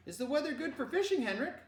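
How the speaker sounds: high, loud questioning father; father's voice. Acted. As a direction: ask it pointedly. Papa voiced on phone.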